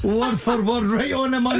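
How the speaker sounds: mock praise through laughter, high; laughing. Real, not acted. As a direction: play along while laughing. Pundits laughing at the Korean claim.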